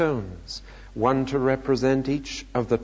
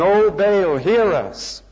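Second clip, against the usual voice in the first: high, loud crying out to a god; shouting; 6 semitones higher, 6 dB louder, slower than usual. A narrator's reading. Prophets call on Baal all morning, shouting. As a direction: call out loudly in appeal.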